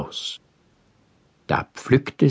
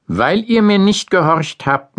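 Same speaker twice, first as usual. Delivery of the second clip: stern angry God; 11 semitones higher than usual. A narrator's reading. God expels them.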